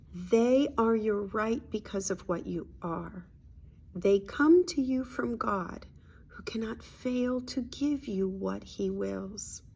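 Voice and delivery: slow, deliberate reading aloud; reading a spiritual lesson. Acted. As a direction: read it out slowly, phrase by phrase.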